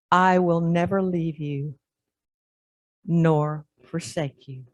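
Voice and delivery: I will never leave you spoken slowly and softly, no stress on never; tender, slow reassurance from the old man; never said evenly and gently, slowed down; gentle quiet promise. Acted. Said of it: "he used the same words I did before".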